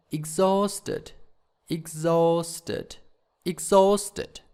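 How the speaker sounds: "exhausted" punched on HAUST; stress demonstration. Shown as a demonstration. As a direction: lean hard on the middle syllable of "exhausted". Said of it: "Where is the stress".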